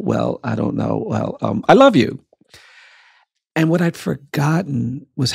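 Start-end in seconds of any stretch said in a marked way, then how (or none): 0.0-1.6 lower, hesitant stalling; acted-out grudging hesitation; insincere reluctance. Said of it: "trying to say as insincerely as I possibly could". 1.7-2.2 loud, higher, blurted out; reenacted grudging boyish outburst; insincere. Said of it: "trying to say as insincerely as I possibly could".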